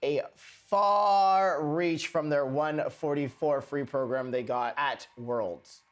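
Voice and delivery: light mock British accent over skating commentary; lightly faked British accent; recapping the Sheffield Grand Prix in a put-on British accent. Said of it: "This is my terrible accent".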